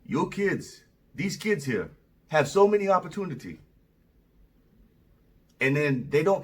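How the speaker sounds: amateur imitation of an African man's English; attempted African accent. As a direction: imitate an African coworker's accent, in measured phrases. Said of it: "I'm gonna try to do his accent".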